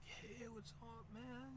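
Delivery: high, soft, slow friendly greeting; imitating Ted's soft greeting at the skate park. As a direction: lightly put on a small friendly voice.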